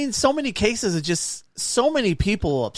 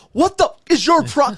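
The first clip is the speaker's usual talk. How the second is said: higher, louder angry outburst; imitating an angry driver after a crash; mock yell; 9 semitones higher, 5 dB louder than usual. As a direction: retell a driver losing his temper. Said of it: "and just yelling".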